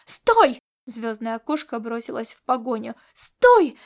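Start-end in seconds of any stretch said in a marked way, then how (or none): 0.1-0.6 loud, high barked stop; cat chasing Laszlo, shouting loud and high; shouted command. Acted. 3.2-3.8 even louder, higher yell; cat yelling after fleeing Laszlo, very loud; shouted command. Acted.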